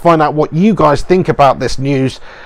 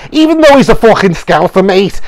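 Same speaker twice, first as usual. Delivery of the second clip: mock Scouse accent; 4 semitones higher than usual. Vlogger mocking a Liverpool fighter in a Scouse accent. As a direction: put on a thick Scouse voice to take the mickey. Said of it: "It's just what happens when you do a Scouse accent".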